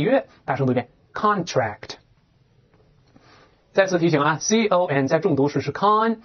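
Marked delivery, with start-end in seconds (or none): 4.4-5.1 "con" ending on a front n; front nasal ending. Shown as a demonstration. Teacher reminds students of the stressed syllable, "con" with front nasal n. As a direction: say "con" with the tongue closing on n. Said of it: "啊加前鼻音".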